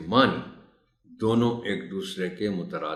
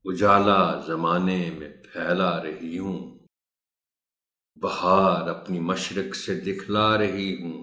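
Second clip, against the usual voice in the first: poem recitation. Shown as a demonstration. Teacher reciting a morning poem for fellow teachers, measured recitation. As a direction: recite line by line, pausing between phrases. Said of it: "آپ کے لیے میں کرت کرتا ہوں".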